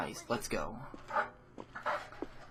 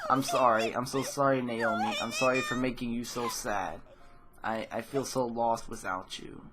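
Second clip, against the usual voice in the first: crying apology. Acted. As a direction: plead for forgiveness through tears. Tearful apology to her friend.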